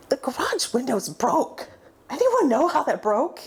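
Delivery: lightly voiced mother asking about the window; mom asking. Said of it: "my mom goes".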